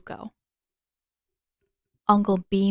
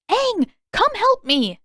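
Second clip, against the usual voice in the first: high, loud slow call across the fight; 14 semitones higher, 5 dB louder, slower than usual. A narrator's reading. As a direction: call Aang over for help. Katara calling to Aang.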